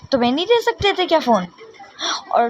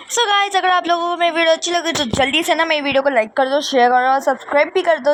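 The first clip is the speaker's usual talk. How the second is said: vlog outro; 2 semitones higher than usual. Real, not acted.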